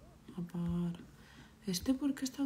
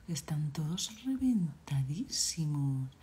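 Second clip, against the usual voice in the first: whisper; 2 semitones lower, slower than usual. Real, not acted. Kids collapsed, game at midnight.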